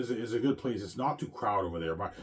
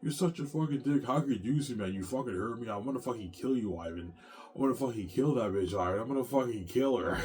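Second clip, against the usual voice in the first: mock yelling; 3 semitones higher than usual. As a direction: imitate a girlfriend yelling threats, without full volume. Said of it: "V J starts yelling at me".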